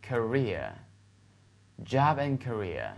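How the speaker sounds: very slow, spaced-out model reading; slow read-along model. Shown as a demonstration. Teacher leading students to read along, slow model reading. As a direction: say each word slowly for repetition. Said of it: "跟我读一下".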